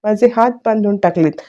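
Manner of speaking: half-voiced imitation of a frantic outburst; mock frantic shouting. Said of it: "मोठ्या मोठ्याने आरडाओरडा करायला लागली".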